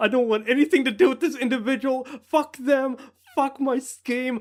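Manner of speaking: high, furious, fed-up, ranting outburst. Retelling what a man said when he gave up, acting out his angry rant. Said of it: "he's just so mad".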